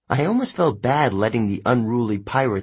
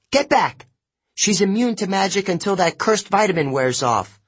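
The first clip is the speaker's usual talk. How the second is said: a hint of a sharp, higher sorceress voice; haughty sorceress; 8 semitones higher than usual. A narrator's reading. Sorceress ordering her attendants back, lightly voiced and higher. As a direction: snap orders as the rattled witch. Circe's voice held.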